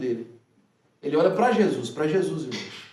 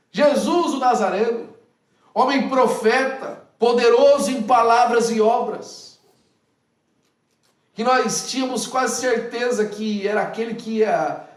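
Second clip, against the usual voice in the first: impassioned lament; 4 semitones higher, 5 dB louder than usual. Retold or imitated. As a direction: declaim the lost hope like a sermon peak. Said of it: "E aí ele começa a dizer".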